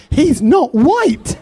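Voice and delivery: slow sing-song imitation of the wife; lightly mocking lady's sing-song. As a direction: drawl it out teasingly, half sung. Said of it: "the brown missus was like".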